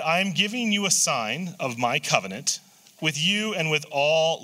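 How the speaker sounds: measured, unhurried Bible reading; scripture reading. Acted. Reads Genesis nine aloud.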